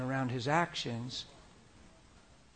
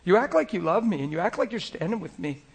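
Jesus hurt and disappointed; 6 semitones higher, 4 dB louder than usual. Retold or imitated. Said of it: "And he says".

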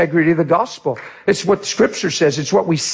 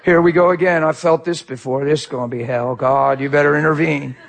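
mock self-pity. Waking with a headache, griping to God in mock misery. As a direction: play the aggrieved morning grumbler. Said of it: "your whole day's already written".

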